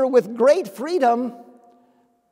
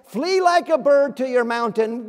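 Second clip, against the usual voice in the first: voice urging flight; 3 semitones higher, 6 dB louder than usual. Retold or imitated. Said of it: "The voice says".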